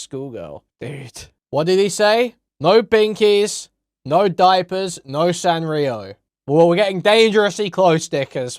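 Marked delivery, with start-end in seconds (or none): 1.5-6.1 loud shocked readout. Real, not acted. Reading a shocking list aloud. 6.5-8.1 loud amused warning. Real, not acted. Reacting to the list.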